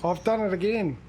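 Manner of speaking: surprised at own slip, pitch lifted; real surprise at a fresh mistake. Real, not acted. Driver who has missed the turn off, surprised. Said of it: "say that with a surprised voice".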